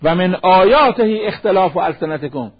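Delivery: solemn scripture intonation; slow Quran recitation. Acted. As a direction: recite the verse slowly, a little fuller. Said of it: "از قرآن بخونم".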